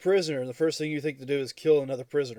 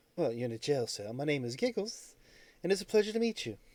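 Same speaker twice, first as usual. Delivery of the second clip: put-on gentle upper-class British accent; 5 dB quieter than usual. Voicing the kobold Giggles answering prisoners in a jail cell, posh British accent as Giggles. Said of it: "in the most posh British sounding accent you can think of coming from a kobold".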